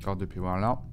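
talking while munching chips; crunching chips. Real, not acted. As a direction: mouth full of chips. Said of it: "Désolé, petit grignotage en live".

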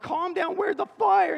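high, urgent dad's shout; re-enacted panicked demand; frantic shouting. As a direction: shout over a screaming child, high and urgent. Dad grabs screaming daughter.

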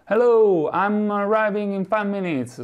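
husband phoning his wife, high and cheery; husband calling home. Retold or imitated. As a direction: call home to tell the wife you're nearly there.

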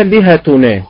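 لهتنا with a falling tune; third variant. Shown as a demonstration. Teacher showing three ways to stress a word. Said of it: "تنطق بثلاث طرق".

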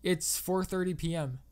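plain reading voice

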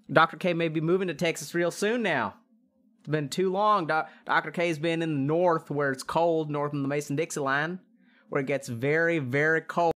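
light mock Texan accent. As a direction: talk like a Texan. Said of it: "We can do Texan".

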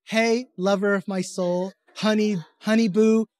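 hammed-up sweet-talk to a wife. Shown as a demonstration. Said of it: "That's how Nikki wants me to talk".

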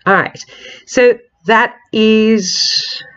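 stuffy, blocked nose; nasal voice. Real, not acted. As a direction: talk through a congested nose. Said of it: "with this lovely nasal voice".

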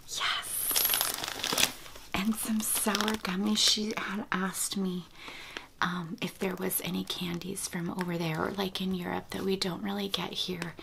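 breathy hush, as if close to the mic; ASMR whisper. Real, not acted. Whispering to viewers about baby gifts, ASMR whisper.

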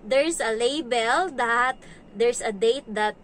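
slow, piece-by-piece explanation; explaining to a child. Retold or imitated. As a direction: spell it out slowly for a small kid. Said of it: "Sinasabi ko sa kanya".

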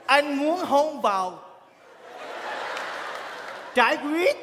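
very slow, stretched recital that breaks into a laughing shout; mock-romantic verse; slow poem recital. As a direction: drag each word out like a love poem. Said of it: "mày ngâm lại tao chơi liền".

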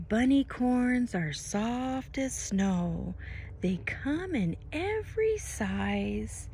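bright sing-song storybook read; lilting picture-book narration; reading to children. Acted. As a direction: read the rhyme to a toddler with wonder. Reads picture-book rhyme.

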